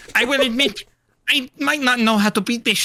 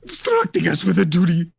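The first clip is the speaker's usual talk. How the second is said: mock crying; 4 semitones higher than usual. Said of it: "then he goes like this".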